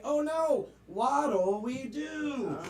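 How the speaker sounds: hammed-up group "oh no", dragged out at the end; corny chorus of dismay; mock dismay. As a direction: cry out in pretend dismay, drawing out the question. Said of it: "they all in unison say".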